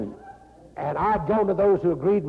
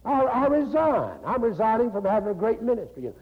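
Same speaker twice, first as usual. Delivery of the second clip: woman's confession. Retold or imitated. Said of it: "that's what she was saying".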